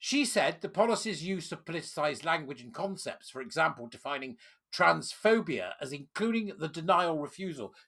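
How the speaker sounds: calmer reading. Real, not acted. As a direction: settle back to a calm read. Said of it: "I'll carry on now in a calmer way".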